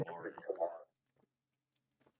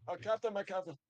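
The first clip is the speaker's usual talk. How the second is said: much higher, louder grand salute; dramatic proclamation; 11 semitones higher, 6 dB louder than usual. Pretend. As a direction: hail him like a ship's captain. Hailing friend as the Captain.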